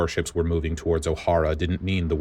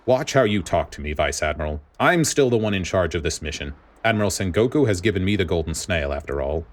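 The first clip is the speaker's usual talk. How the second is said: grating voice. Acted. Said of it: "Spandine's voice was as grating and unwelcoming".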